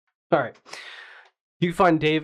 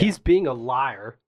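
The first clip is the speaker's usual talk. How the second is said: countryman voice; 6 dB louder, slower than usual. Acted. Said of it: "Do I sound like a countryman?".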